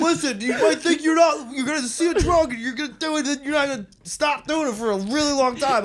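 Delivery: high, loud mocking lecture voice; squeaky preachy warning, hammed up; sending up the ex-addict speaker. Mimicking anti-drug speaker.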